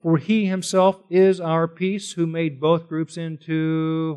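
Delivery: "he" lifted, the verse read slowly; a slow quote that leaves room for their answer; slow emphatic quote. Acted. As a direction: read it slowly so they catch it. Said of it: "I want you to notice".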